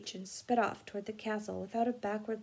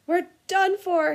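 moaning; 9 semitones higher, 10 dB louder than usual. A narrator's reading. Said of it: "he moaned".

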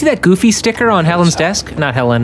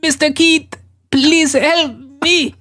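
put-on slow, high, hammy Colombian accent; 8 semitones higher, much slower than usual. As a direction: drawl it out in a bad Colombian accent. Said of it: "in a really bad Colombian accent".

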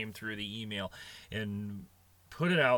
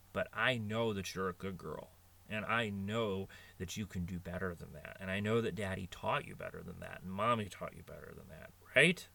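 put-on softer, lower reassurance to a small child; father gently reassuring his little daughter; gentle reassurance; 3 semitones lower, 5 dB quieter than usual. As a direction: soften right down and comfort her. Father comforts daughter after scolding.

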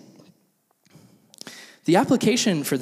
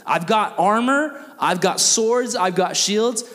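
lightly voiced bossy soldier, a bit higher; Roman soldier; 4 semitones higher than usual. Soldier ordering a Jewish citizen to haul gear, mildly bossy. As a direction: order a peasant around, stretching the commands. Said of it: "any Roman soldier could see a Jewish citizen".

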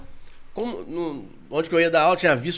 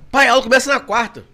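excited daughter; 5 semitones higher, 8 dB louder than usual. Retold or imitated. Daughter voiced in story.

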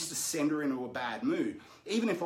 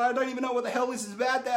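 laughing protest; 8 semitones higher, 5 dB louder, much faster than usual. Retold or imitated. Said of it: "she's, like, laughing".

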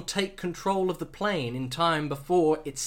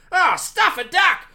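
high, loud Australian yelp; Australian shout; 9 semitones higher, 6 dB louder than usual. Acted. Startled pilot shouting at Bond in Australian accent. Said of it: "shouted the pilot".

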